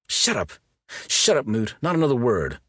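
loud, sharp angry command. A narrator's reading. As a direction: shut him down hard. Heated quarrel with Moot.

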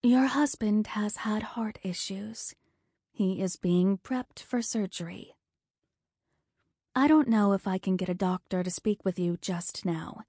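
soft, gentle nurse's voice; quiet comforting. Acted. Nurse comforting the frightened wife, soft and gentle. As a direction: soothe a scared wife softly. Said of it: "speak in a quiet, comforting voice".

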